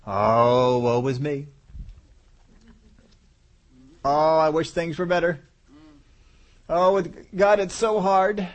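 preacher mocking complaining believers, whiny; whiny woe is me. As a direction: whine it like a martyr feeling sorry for himself. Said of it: "an attitude of".

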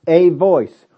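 "a" said as a full, loud AY; stress on A. Real, not acted. Preacher points congregation to the wording, stress on A. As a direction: hit "a" hard before voice. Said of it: "Now look at this".

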